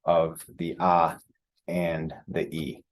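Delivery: ah and e drawn out slowly one by one; slow teacher demo of ah and e; slow separated vowels. Shown as a demonstration. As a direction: stretch each vowel apart. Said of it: "so we separate the sounds".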